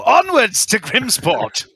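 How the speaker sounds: high, drawn-out battle cry; rallying yell. Acted. Pointing a sword stick downriver, a rallying yell. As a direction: yell it slowly and high, like a command to charge. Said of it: "point it in the air downriver and yell".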